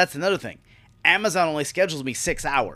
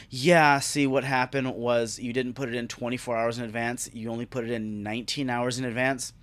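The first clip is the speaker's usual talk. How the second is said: mock HR clerk; 3 semitones lower, 4 dB quieter than usual. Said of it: "he goes".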